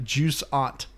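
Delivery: "juice aunt" said slowly as two English words; mock mispronunciation. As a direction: sound it out as juice plus aunt. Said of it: "It sounded like you were saying".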